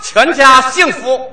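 new year greetings. Real, not acted. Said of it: "我们应该给大家拜个年".

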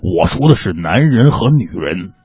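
put-on low, hoarse old storyteller voice; Shan Tianfang storyteller voice. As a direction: do the old pingshu master. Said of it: "感谢单田芳老师".

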